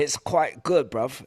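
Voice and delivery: put-on playful British accent; mock English accent. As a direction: toss it off in jokey London English. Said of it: "how's your English accent?".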